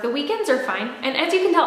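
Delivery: winded, breathing between words. Real, not acted. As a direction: talk while short of breath. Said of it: "I'm out of breath".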